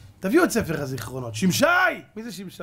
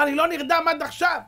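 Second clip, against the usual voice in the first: much higher, louder plaintive whine; whiny high complaint; 12 semitones higher, 5 dB louder than usual. Retold or imitated. King whining to Haman he still can't sleep.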